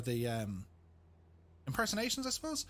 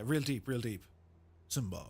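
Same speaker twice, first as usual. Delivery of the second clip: much lower rumbling Mufasa voice; James Earl Jones; 4 semitones lower than usual. Retold or imitated. Streamer imitating James Earl Jones calling Simba, deep. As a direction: go low and call Simba like a lion king. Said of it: "James Earl Jones".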